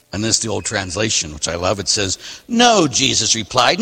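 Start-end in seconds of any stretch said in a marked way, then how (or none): 2.5-2.9 sharp, louder no, higher; emphatic no. Retold or imitated. Jesus correcting Peter, a raised emphatic no. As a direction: snap out the No.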